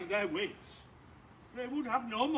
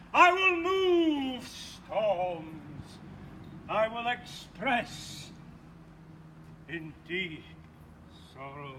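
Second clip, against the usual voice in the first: mock tragic; 4 semitones lower, slower than usual. Bottom hams up a tragic speech.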